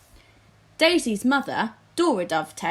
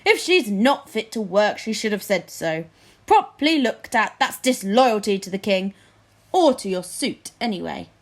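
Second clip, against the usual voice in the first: grunting lord; 4 dB louder than usual. Acted. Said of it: "grunted Flapoon".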